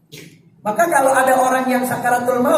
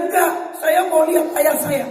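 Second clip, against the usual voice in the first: protesting relative; 3 semitones higher than usual. Retold or imitated.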